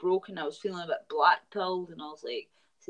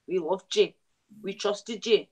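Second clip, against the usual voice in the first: wounded reproach; 3 semitones higher than usual. Acted. Betrayed Scots to their supposed ally, hurt and accusing. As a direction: reproach them like a betrayed friend.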